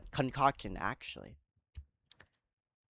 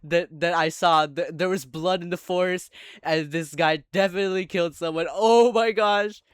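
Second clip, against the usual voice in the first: imitating a panicked girl, higher and louder; 5 semitones higher, 9 dB louder than usual. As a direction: act out her alarm at the axe-holder in a raised voice. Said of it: "She's like".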